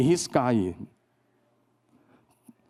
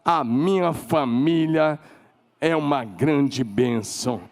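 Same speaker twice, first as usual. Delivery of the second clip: slow, deliberate declaration of blessing; much slower than usual. Shown as a demonstration. Pastor modelling the right words for the family, slow and sincere. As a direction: lay each word down slowly. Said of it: "sabe o que você tem que falar?".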